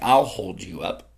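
low, slow reassurance; slow down and drop the pitch to comfort; steady reassurance. Acted. Pastor voicing God to the exhausted, low steady reassurance.

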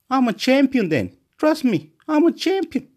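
high, emphatic self-hype; pumped-up boast. Real, not acted. Talking himself up to the camera, pumped up. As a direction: sell it like a champion.

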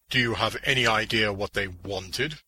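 lightly voiced hero asking a question; character voice, pressing for an answer; Green Arrow. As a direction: put on a hero's questioning voice.

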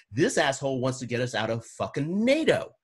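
rising heat, pitch climbing on nato; real frustration boiling up over nato; getting emotional. Real, not acted. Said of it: "I'm getting emotional".

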